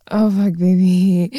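drawn-out loud moan; slow loud moan. Acted. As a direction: moan it slowly.

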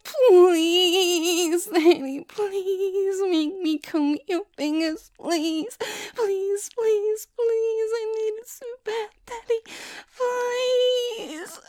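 high, loud breathless pleading; desperate begging. Acted. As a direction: beg urgently, voice climbing. Begging partner before climax.

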